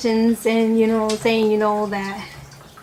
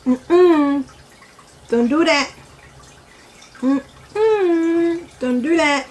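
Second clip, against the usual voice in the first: scolding parent; 4 semitones higher, much slower than usual. Retold or imitated. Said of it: "the adults will be like".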